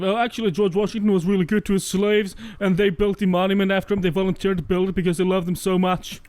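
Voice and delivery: a touch of a know-it-all pundit; mock conservative. Mocking an extreme conservative defending Washington, lightly voiced. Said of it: "cue the fucking extreme conservative".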